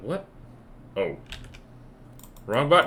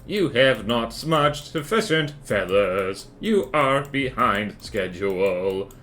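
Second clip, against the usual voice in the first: cold dystopian robot manager; deadpan machine boss issuing orders. Acted. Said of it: "I just like doing that voice now".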